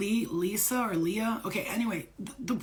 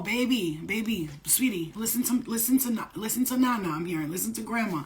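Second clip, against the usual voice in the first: lightly voiced loving grandma, a bit louder; grandmother's voice; 2 semitones higher, 3 dB louder than usual. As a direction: coax the grandchild like a doting nana. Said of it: "I'm hearing somebody talk like that".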